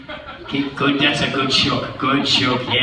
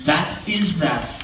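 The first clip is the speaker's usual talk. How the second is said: smug cat; 4 dB quieter, slower than usual. Acted. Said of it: "then he said".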